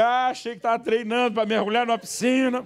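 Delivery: sarcastic retort. Retold or imitated. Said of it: "a minha vontade é dizer".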